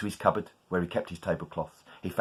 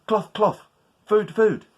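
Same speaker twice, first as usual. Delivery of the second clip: higher, louder, pushing the spell; insistent spell; 12 semitones higher, 7 dB louder, slower than usual. Acted. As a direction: say it harder, willing it to work. Spell fails, tries harder.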